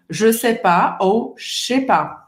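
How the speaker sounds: slow casual French. Shown as a demonstration. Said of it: "mais rápido".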